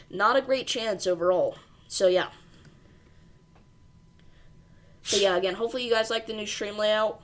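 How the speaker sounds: breathing hard between words; audibly out of breath; heavy breathing. Real, not acted. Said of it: "Sorry, I'm breathing heavy".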